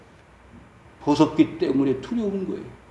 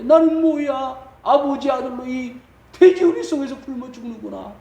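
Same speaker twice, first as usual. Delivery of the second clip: acted anguish, raised pitch; anguished lament; 6 semitones higher than usual. Prodigal son bewailing his hunger in the pigsty, anguished lament. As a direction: lament like a starving runaway son, mildly dramatised. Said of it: "괴로웠습니다".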